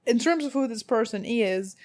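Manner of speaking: accidental, overdone Southern accent. Real, not acted. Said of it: "do that weird accent".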